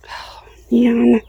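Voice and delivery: a soft whispered "oh, man"; whispered dismay. Real, not acted. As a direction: breathe it out under your breath. Dismayed at frost damage.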